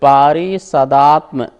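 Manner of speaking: पारिषदात्म drawn out, stopping after म; break after MA. Shown as a demonstration. Teacher shows where to split the word, deliberate break. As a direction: say पारिषदात्म as one piece, then pause. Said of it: "मा तक बोलेंगे".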